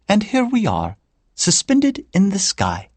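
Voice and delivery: wistful Irish lilt, pitched well up; Irish accent. A narrator's reading. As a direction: muse like an Irish grandmother. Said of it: "in an Irish accent".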